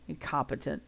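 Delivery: low angry mutter under the breath; a soft bitter mutter. A narrator's reading. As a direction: grumble it to yourself, barely audible. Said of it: "he muttered to himself".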